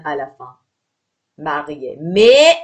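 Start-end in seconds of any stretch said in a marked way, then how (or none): 2.0-2.6 Mais punched high and loud; emphatic mais. Shown as a demonstration. Teacher stressing the contrast in pronunciation. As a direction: hit Mais hard to mark the contrast. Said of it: "ça se prononce pareil".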